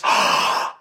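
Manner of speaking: hushed, slow accusing whisper; seductive whisper. Retold or imitated. The enemy turning on the believer, in a seductive whisper. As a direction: whisper the blame like a tempter. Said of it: "in that seductive voice turns right around and says".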